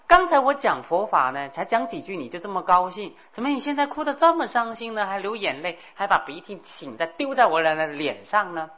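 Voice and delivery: puzzled Naropa. Acted. Naropa puzzled by hag's weeping.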